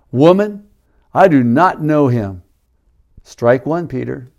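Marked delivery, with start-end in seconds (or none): 0.1-2.4 insistent denial. Acted. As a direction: push back hard on the accusation. Peter's acted denial.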